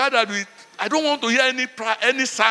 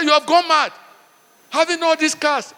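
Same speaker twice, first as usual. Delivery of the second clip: higher, louder rebuke on "gone"; louder scolding; 4 semitones higher, 4 dB louder than usual. Retold or imitated. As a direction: raise your voice, hit "gone" hard. Retelling scolding a rich friend.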